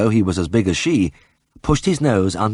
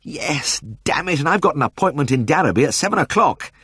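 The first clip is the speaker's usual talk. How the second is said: pitched high, a comic whining wail; wail of lamentation; 8 semitones higher than usual. A narrator's reading. Vet wailing to the farmers about his appointment, high and whining. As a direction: moan it like a hard-done-by vet. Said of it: "set up a wail of lamentation".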